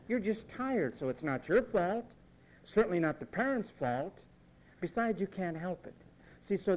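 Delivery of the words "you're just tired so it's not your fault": mocking the excuse, pitched higher; sarcastic echo. Preacher mocking the parents' excuse to congregation, sarcastic. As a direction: throw their excuse back with scorn. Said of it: "In other words".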